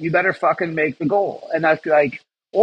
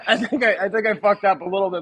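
high, laughing stammer; laughing, a bit faster and higher; 5 semitones higher, 3 dB quieter, faster than usual. Real, not acted. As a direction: laugh helplessly while confessing. Laughing at own mistake.

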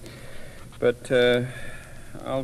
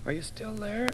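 soft question; 6 semitones higher, 10 dB quieter than usual. A narrator's reading. Gremlin calling softly across.

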